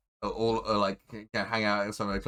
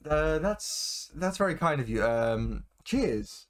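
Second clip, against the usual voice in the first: lightly voiced woman, higher pitch; polite, slightly higher character voice; a hint of a woman accepting a drink; 5 semitones higher, slower than usual. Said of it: "so she goes".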